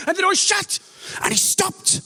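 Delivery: laughing high and hard through the words; cracking up at the punchline; high-pitched giggling delivery. Real, not acted. Punchline of vomit story.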